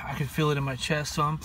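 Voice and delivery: talking through a hiccup; hiccuping mid-sentence. Real, not acted. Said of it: "There's a hiccup".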